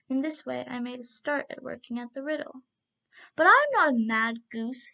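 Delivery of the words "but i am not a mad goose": loud, indignant goose retort; angry gander. A narrator's reading. Gander snapping back at the young man, angrily. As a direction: bristle with offended pride. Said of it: "hissed the gander angrily".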